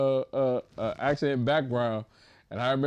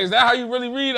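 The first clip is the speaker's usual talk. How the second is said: mock teacher; 11 semitones higher, 7 dB louder, faster than usual. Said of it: "And she was like".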